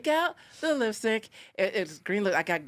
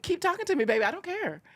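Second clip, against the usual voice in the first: sassy taunt; 6 semitones higher than usual. Retold or imitated. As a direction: purr a teasing dare. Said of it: "I was like".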